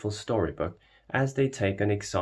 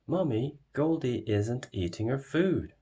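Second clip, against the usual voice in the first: put-on high, light little-girl call to mummy; a small pig calling out worried; little girl crying out; 5 semitones higher than usual. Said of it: "cries Peppa".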